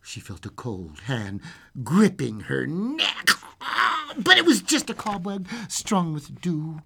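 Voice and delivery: spooky storybook reading; suspenseful narration. A narrator's reading. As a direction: creep up to the scare, then ease off. Reads fairy tale aloud.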